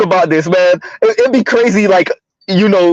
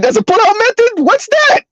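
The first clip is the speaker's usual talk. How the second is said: much higher, squealed through laughter; mock incredulous question; 13 semitones higher than usual. Host reads a commenter's joke, laughing mock disbelief. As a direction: read the joke while cracking up.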